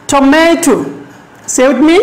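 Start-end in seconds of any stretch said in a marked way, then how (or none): 0.1-0.8 "Tomato" with a longer, stronger middle syllable; stress on MA. Shown as a demonstration. Teacher shows students the stress in "Tomato", middle syllable stressed. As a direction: lean on the middle of "Tomato", then let the end fall. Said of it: "এম এ, মে".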